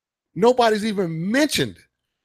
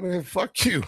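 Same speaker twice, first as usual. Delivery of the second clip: laughing dismissal; 5 dB quieter, slower than usual. Retold or imitated. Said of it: "And they're like".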